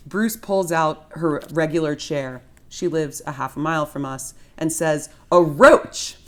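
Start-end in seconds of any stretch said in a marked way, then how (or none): 5.3-6.2 excited shout. Acted. Bruce answers quiz excitedly.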